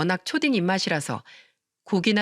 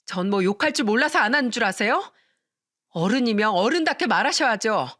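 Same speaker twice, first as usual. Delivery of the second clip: shouting; 3 semitones higher than usual. Acted. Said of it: "또 한 번 소리쳤습니다".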